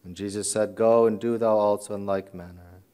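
formal, measured scripture reading; gospel reading. Real, not acted. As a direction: read the gospel to the congregation. Reads the gospel aloud.

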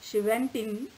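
put-on measured storytelling read for children; expressive read-aloud voice; story narration. A narrator's reading. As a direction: tell the fable clearly and gently to a class.

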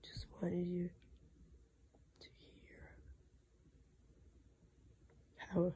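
faint whisper, voice almost gone; losing voice. Real, not acted. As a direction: breathe the words with no voice. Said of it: "never had laryngitis like this".

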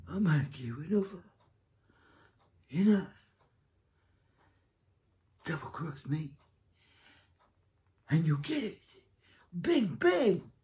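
a hint of a tough mob boss making threats; mock gangster boss. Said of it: "he might as well talk like this".

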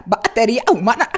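"Batería humana" broken by vowel squawks; stuttered, breaking syllables; scratch break. Shown as a demonstration. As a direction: crack the voice inside each word. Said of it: "hacer esas partes del scratch".

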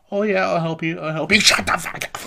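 mock freak-out. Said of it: "he talks and then he just freaks out".

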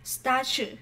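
"statue" with the middle t as ch, "sta-chu"; ch sound. Shown as a demonstration. Teacher shows why this answer differs, ch sound. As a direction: model "statue" clearly with a ch in the middle. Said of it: "chúng ta phát âm là âm ch".

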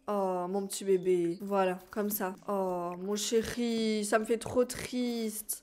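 a sad goodbye whispered to a beloved cat; tender grief. Real, not acted. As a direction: mourn the little cat gently, lingering on each word. Mourning her dead pet cat.

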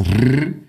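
R as a long trilled "rrr"; rolled R. Shown as a demonstration. Showing how R was said in Portugal, R long and rolled. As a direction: hold the R as a drawn-out tongue roll. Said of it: "os R's em Portugal diziam-se R".

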